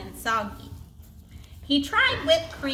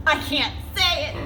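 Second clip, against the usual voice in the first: giggling; 3 semitones higher than usual. Acted. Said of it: "giggled the rhinoceros".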